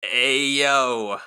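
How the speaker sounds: loud opening, drawn-out name at the end; slow mocking take on an actor's lazy Mario; Chris Pratt mock impression. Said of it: "And then he just goes".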